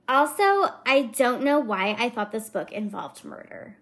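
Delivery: lightly voiced Valley Girl aside; a hint of Valley Girl reviewer; mildly mocking Valley Girl reading. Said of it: "the Valley Girl kind of is my go-to voice".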